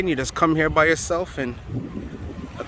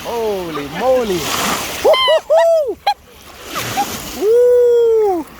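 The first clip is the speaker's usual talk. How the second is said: in ice cold water; 6 semitones higher, 3 dB louder, much slower than usual. Real, not acted. Wading into freezing water.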